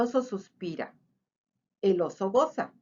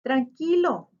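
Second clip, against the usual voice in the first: squeaky reassuring mouse; 4 semitones higher, 4 dB louder than usual. A narrator's reading. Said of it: "chilla el ratón".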